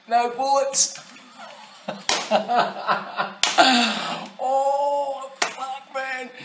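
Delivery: high, loud mock prankster crowing through laughter; hammed-up uproarious laughing at the victim; acted gleeful taunt. Acting out a mock execution prank reveal.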